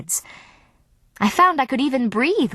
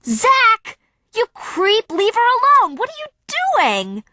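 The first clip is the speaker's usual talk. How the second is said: high, loud outraged yell; angry shouted rebuke at a boy; furious yell; 4 dB louder than usual. A narrator's reading. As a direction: scream at him to get off her. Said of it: "I heard Samantha yell".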